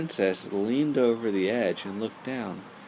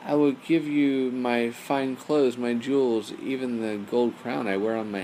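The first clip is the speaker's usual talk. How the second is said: eager offer; 3 semitones higher, 4 dB louder than usual. Acted. Princess bargaining eagerly.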